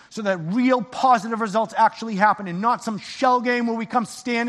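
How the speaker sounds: earnest spoken prayer to God. Acted. Pastor leading the congregation in a closing prayer, earnest and fervent. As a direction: pray it with fervent conviction.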